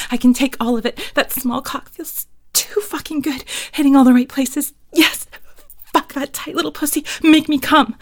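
breathy and increasingly worked up; erotic roleplay. Pretend. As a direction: start intimate, build to urgent pleading.

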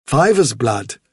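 leader rabbit repeating it thoughtfully; Hazel the rabbit. Acted. Hazel echoes Vilthuril's words.

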